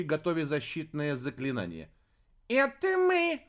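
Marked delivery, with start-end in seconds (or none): 2.5-3.4 very high squeaky call; squeaky cub. A narrator's reading. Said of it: "пропищал в ответ другой голос".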